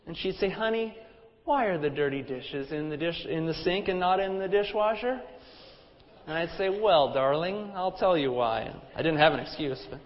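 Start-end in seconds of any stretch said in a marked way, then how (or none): 0.5-5.2 mock-sweet wife rephrasing a complaint; gracious, loving. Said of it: "in a gracious and loving tone". 6.7-8.7 slow, mock-sweet husband's reply; gracious, loving. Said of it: "in a gracious and loving tone".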